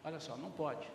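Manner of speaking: quiet, gentle talk with the wife; husband quietly agreeing with his wife in front of the child; soft reassuring. Shown as a demonstration. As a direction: talk it over softly with the wife, backing her up. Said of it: "Aí vai lá".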